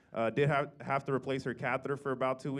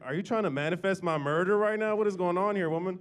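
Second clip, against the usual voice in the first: exasperated; 4 semitones higher, 5 dB louder than usual. Retold or imitated. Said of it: "And I'm like".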